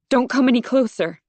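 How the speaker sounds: trembling keep-back plea; wavering voice. A narrator's reading. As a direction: voice shaking as she warns a stranger off. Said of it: "I hear my voice waver".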